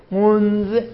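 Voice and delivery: منذ with the ذ left vowelless; منذ ending on a bare z sound; final consonant without vowel. Shown as a demonstration. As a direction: say منذ, stopping dead on an unvowelled ذ. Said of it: "منذ رو زال حرکت نده بخون".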